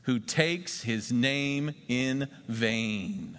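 slow, solemn reading aloud; solemn unison-style reading; scripture reading. Acted. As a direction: lead the room through the verse. Congregation reads scripture together.

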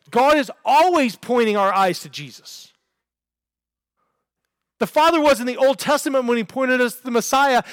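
driving pulpit proclamation; preaching. Real, not acted. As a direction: proclaim it to the congregation with conviction. Preaches with rising force.

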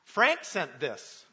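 slow, lightly voiced child reciting his stage line; little boy's loud announcement. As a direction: imitate a boy proudly declaring his line, drawn out. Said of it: "and he says loudly".

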